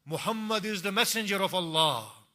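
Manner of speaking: high, loud call of faith; crying out. Acted. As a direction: proclaim it to the whole camp. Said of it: "until he cries out".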